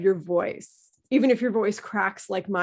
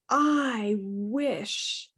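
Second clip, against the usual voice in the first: wistful. Shown as a demonstration. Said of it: "when I'm emphasizing those words".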